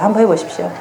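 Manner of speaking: ordinary talk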